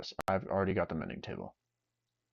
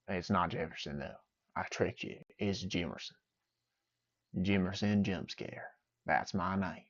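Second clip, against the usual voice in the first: quieter, lightly voiced goofy character; Jimerson voice; 6 dB quieter than usual. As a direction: introduce yourself as a silly persona, softly. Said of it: "now that I'm done doing voices".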